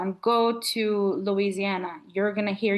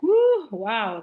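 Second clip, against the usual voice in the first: louder, wowed exclamation; amazed reaction; 2 semitones higher, 5 dB louder than usual. Retold or imitated. Friend retelling their reaction to Keys's story, amazed. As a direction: react with a louder woo of wonder. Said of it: "And I was like".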